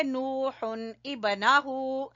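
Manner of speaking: नूहुन इबनाहु read slowly as two separate words, without joining; slowed recitation. Shown as a demonstration. Teacher showing the reading without noon qutni, slow recitation. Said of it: "अगर हम नून कुतनी को नहीं पढ़ेंगे".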